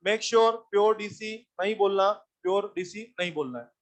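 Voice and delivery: slow, weighted warning. Shown as a demonstration. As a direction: drag out "pure DC नहीं बोलना". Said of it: "teacher warns the class".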